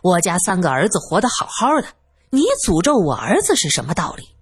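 mildly indignant reproach; somewhat angry. Acted. Man reproaching the simpleton for cursing his sons, mildly angry. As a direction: remonstrate with a touch of anger. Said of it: "宁志国有些生气".

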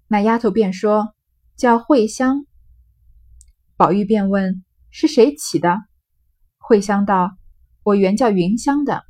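measured, slightly slow storybook reading; reading classical text aloud. Acted. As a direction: read the old novel out to the class, unhurried. Reads the novel's original text.

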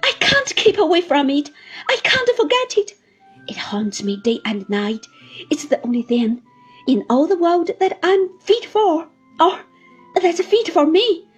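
high, loud lament with crying; despairing sobbing. Acted. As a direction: sob out her hopelessness. Martha's despairing outburst continues.

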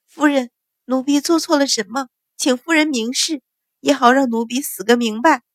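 a terrified maid crying out; frightened pleading cry. Acted. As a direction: plead from her knees, voice lifted in fear. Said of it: "大声道".

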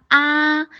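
啊 sustained slowly as the first sound; drawn-out ah. Shown as a demonstration. Teacher showing the first half of the sound, long held 啊. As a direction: hold a long, open AH on 啊. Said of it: "先发啊".

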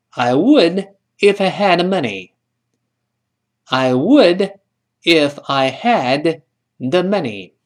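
slow, clear conditional read; patient teacher demo; slow model sentence. Shown as a demonstration. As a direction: stretch out "if I had the money". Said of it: "他说".

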